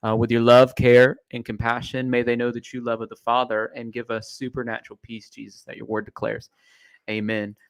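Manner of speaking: prayerful, sincere closing prayer; earnest prayer. Real, not acted. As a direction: lead the listeners in prayer. S0 leads a prayer for families.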